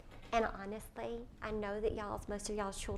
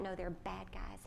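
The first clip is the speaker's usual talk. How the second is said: put-on little boy voice; 5 dB quieter than usual. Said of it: "he goes on and on".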